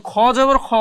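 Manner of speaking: খ জবর খ ending on rounded KHO; thick heavy KHO. Shown as a demonstration. Teacher concluding the rule, খ pronounced thick. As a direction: keep "খ" full and heavy, vowel toward O. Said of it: "এটা এতটাই মোটা".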